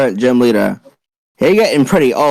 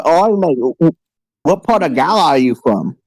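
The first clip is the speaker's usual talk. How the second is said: put-on British accent. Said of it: "distinct yet familiar accent".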